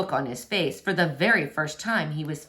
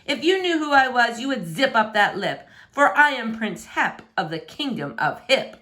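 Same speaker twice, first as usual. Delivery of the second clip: lightly voiced haughty prince, a bit higher; pompous prince; 5 semitones higher than usual. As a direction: puff up like a vain royal. Prince boasts his rank.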